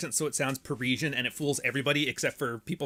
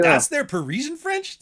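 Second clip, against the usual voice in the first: put-on higher and louder, African-accented French; mock African French accent; 12 semitones higher, 6 dB louder than usual. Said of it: "picture that speaking French".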